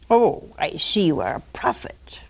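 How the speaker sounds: sly, unvoiced aside, smart-alecky; smart aleck. Woman dodging Jesus, smart-alecky whisper. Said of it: "she gets a little smart aleck".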